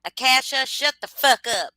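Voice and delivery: mock yell. Joking greeting yelled at chatter.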